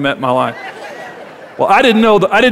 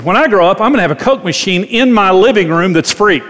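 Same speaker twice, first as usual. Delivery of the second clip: put-on frustrated child; 3 semitones higher, 3 dB louder than usual. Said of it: "he said it out of frustration".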